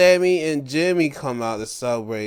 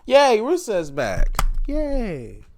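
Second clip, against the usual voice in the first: cheering; 10 semitones higher, 4 dB louder, slower than usual. Real, not acted. Cheering Rusev's return.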